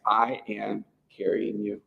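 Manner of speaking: "I am carrying you" slowed right down; emphatic. Shown as a demonstration. God reassuring his burdened people, "I am carrying you" slow and emphatic. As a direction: spell out "I am carrying you" slowly and firmly. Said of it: "he's got this emphatic language".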